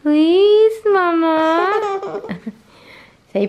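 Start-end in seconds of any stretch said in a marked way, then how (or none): 0.0-2.2 high, loud, eager please; demonstrating. Shown as a demonstration. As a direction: show her how to ask, bright and loud. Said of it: "Do you say".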